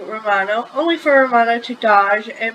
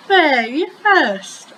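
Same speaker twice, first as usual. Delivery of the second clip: playful retort; 4 semitones higher, much slower than usual. Acted. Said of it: "I countered".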